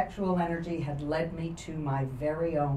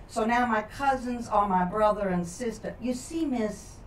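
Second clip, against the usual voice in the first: put-on a boy earnestly explaining his confusing family, a touch higher; lightly voiced young boy Clarence; 3 semitones higher than usual. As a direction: play a polite puzzled schoolboy, slightly raised pitch. Plays boy Clarence at length.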